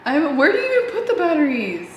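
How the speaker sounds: normal talking voice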